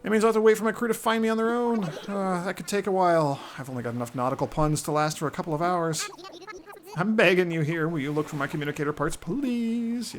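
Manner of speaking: high, loud, dopey sailor bird; goofy seagull voice. Acted. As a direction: play a dazed seafaring gull.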